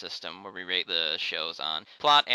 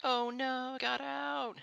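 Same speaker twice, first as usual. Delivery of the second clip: squeaky, much higher mock panic; tiny high voice, softer; 7 dB quieter, much slower than usual. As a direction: squeal it like a cartoon coward. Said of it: "they're like".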